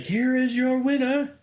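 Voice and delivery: very high, loud, slow drawn-out champion announcement; imitating a ring announcer's booming winner call, drawn out. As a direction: announce the new champion to the whole stadium. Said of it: "she's like".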